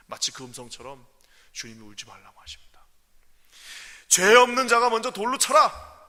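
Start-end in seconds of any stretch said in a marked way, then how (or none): 1.5-2.7 fast, hushed; whisper. Real, not acted. Whispered climax. 4.1-6.0 much louder and higher verdict; stern command. Acted. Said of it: "정말 준엄한".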